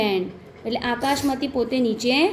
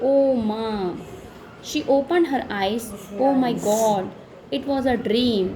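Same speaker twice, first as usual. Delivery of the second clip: slow, measured classroom reading; story read-aloud; 2 semitones lower, much slower than usual. Acted. Teacher reading the bicycle dream story to pupils, slow read-aloud. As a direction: read it out slowly, phrase by phrase.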